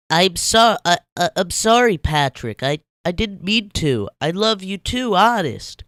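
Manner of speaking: high loud tearful stammer; whimpering SpongeBob. Acted. SpongeBob apologizing to Patrick, high whimpering stammer. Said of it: "SpongeBob whimpered out".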